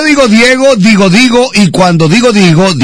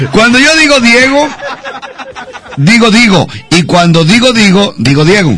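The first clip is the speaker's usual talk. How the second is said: careful demonstration. Shown as a demonstration. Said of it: "pongan atención".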